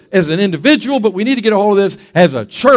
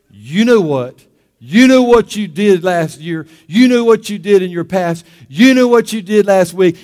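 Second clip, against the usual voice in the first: loud, insistent, building accusation; accusing devil, forceful and repetitive; devil's accusation; 2 semitones higher, 5 dB louder than usual. Acted. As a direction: drive each charge home, stretched and rising. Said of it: "what the devil does to us".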